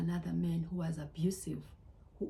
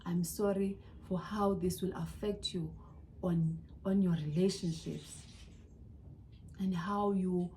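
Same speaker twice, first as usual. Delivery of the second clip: tearful apology. Real, not acted. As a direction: apologise gently as if holding back tears. Tearful apology to herself, daughters.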